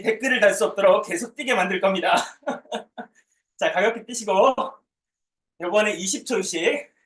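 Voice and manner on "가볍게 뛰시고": ordinary delivery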